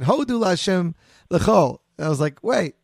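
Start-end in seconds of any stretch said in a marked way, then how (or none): 0.0-1.8 slow, imitating a heavy Litvish Hebrew accent; mock Litvish Ashkenazi pronunciation of "Hodu Lashem Lechol". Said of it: "like, major Litvish accent". 2.4-2.7 mock surprise. Mock confused reaction.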